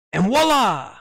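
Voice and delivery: high, loud showman's flourish; ta-da, a hammed-up reveal; mock dramatic reveal. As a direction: announce it like a magic trick.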